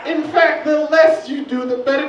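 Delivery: high, loud, laughing disbelief; exasperated comic rant, pitched high; incredulous rant. Real, not acted.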